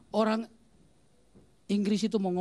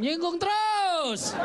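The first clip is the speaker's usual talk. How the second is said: whiny complaint; 9 semitones higher, 4 dB louder, much slower than usual. Retold or imitated. Young man complains about preacher.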